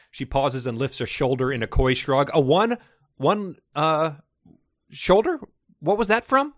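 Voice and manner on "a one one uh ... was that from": high, loud, baffled disbelief; incredulous. Real, not acted. Reading a silly line aloud, incredulous and high. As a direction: squeak out the question in disbelief.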